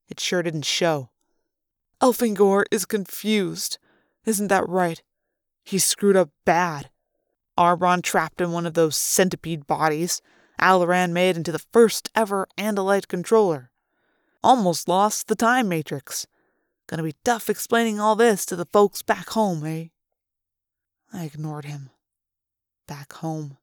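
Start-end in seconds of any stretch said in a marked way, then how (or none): 2.0-19.9 gloating jeer at a beaten rival; sneering Chapman. Acted. Chapman taunts the hero. 22.9-23.6 bitter breathy whisper; whisper, barely there. A narrator's reading. Narrator echoes the taunt inwardly.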